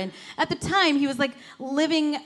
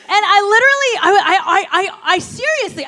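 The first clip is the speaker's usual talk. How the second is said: high, loud, stammering through laughter; giggling over the confession to the congregation; laughing; 7 semitones higher, 8 dB louder than usual. Real, not acted. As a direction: laugh at yourself mid-sentence. Laughing about own near-mistake.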